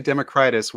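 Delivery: "Democritus" said as demo-CRY-tus; long stressed CRY in "Democritus"; quoted odd pronunciation. Retold or imitated. Host objecting to the writer's version, "Democritus" as demo-CRY-tus. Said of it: "I heard you say Democritus once".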